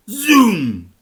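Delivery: high, loud zoom; a narrator calling out a speeding car; sound effect. A narrator's reading. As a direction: stretch out a racing zoom. Sound effect read in story.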